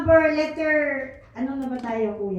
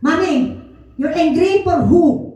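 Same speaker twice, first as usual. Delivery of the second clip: put-on child's question; 5 dB louder than usual. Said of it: "pagka naniniraman ako".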